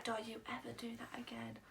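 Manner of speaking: furious hissed whisper; fuming whisper. Retold or imitated. Fuming dad scolding his lost daughter, whispered. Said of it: "my dad was fuming".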